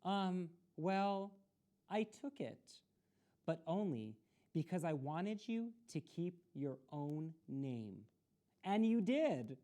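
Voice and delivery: embarrassed. Acted. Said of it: "Joey looked embarrassed".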